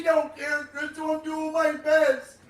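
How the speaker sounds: shouting. Real, not acted. Gamer yelling at teammates.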